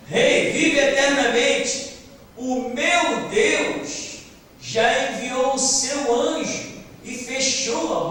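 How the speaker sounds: high, ringing reply in Daniel's role; calling out. Acted. Daniel calls from the den to the king, calling out. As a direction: call up to the king in drawn-out phrases. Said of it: "E aí Daniel grita".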